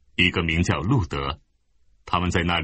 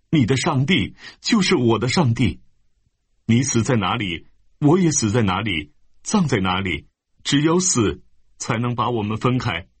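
Ruth's pleading vow; 5 semitones higher than usual. Acted. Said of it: "路得说".

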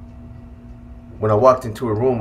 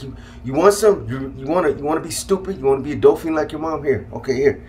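higher, stammered imitation of a fed-up mother; retold shaking frustration; 4 semitones higher than usual. Mom giving in to son, imitated shaking frustration. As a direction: push the questions out in mock exasperation. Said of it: "she was literally shaking".

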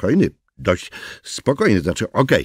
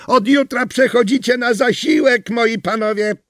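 higher taunting announcement; mocking woman's threat; 13 semitones higher, 4 dB louder than usual. Neighbour taunting the two garbagemen. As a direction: gloat at them. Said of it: "krzyknęła".

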